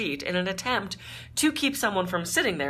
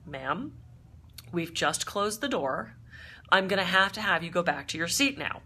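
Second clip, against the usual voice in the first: calm flight attendant. Retold or imitated. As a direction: soothe her like a steady flight attendant. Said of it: "very calmly says".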